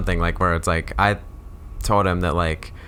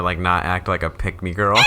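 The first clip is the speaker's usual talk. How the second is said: yelled punchline; 3 dB louder than usual. Acted.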